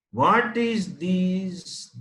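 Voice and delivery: put-on slow, drawn-out teaching question to a toddler; mother quizzing baby. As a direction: ask it slowly like a mother teaching.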